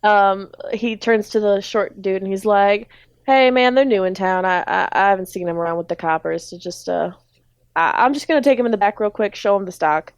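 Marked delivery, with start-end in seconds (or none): 3.2-10.1 casual southern reassurance to a partner; Speed's southern accent. Acted. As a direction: vouch for the newcomers, lightly southern. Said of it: "everyone in this grocery store have a southern accent".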